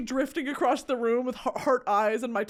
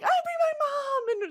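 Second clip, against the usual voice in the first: mock sing-song reply. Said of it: "I was like".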